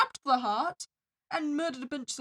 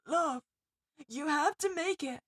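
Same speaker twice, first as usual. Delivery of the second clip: story narration. A narrator's reading.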